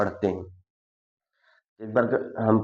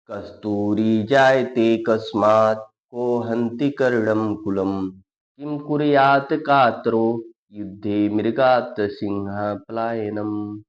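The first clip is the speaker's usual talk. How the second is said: Sanskrit verse recitation; slower than usual. Acted. Teacher recites next verse.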